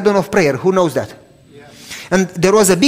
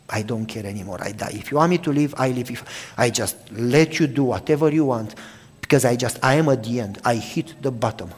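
broken surrender; 5 semitones lower, 6 dB quieter than usual. Retold or imitated. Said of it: "I just broke and I cried".

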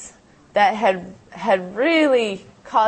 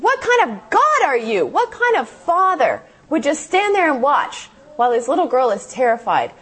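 angry cry to God; 5 semitones higher than usual. Retold or imitated. Child shouting her anger at God in prayer. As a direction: hurl the question at God.

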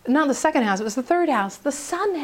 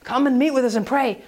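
preachy nagging; 2 semitones lower than usual. Retold or imitated. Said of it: "don't get up and say".

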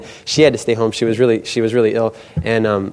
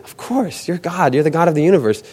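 high-pitched, quick-to-agree protest; acted eager assurance; 5 semitones higher than usual. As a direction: assure God as if it were obvious. Acted overeager reply to God's question.

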